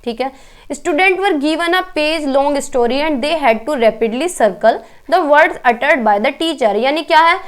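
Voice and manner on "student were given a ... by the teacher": reads the exam question out very slowly; deliberate classroom dictation pace; slow question reading. Acted. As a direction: spell out each word of the question for the class.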